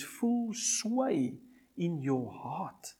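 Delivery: slow whispered phrase. Acted. Preacher telling listeners about the Spirit, whispered. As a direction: drop into a whisper.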